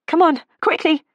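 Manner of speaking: loud, high hurried call; urgent shout. A narrator's reading. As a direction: hurry her out, shouting. Rushing out of a fire.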